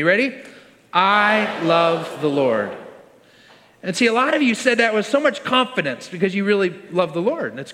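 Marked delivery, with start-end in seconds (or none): 0.9-2.7 slow, drawn-out group recitation; leading in unison. Real, not acted. Pastor leading the church to say it with him, slow and deliberate. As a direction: stretch each word so everyone can join. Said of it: "can you say it with me?".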